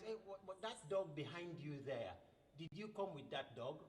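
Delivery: wife spotting the dog behind; wife whispering fearful question to husband; worried hush. Acted. Wife alarmed, hushed.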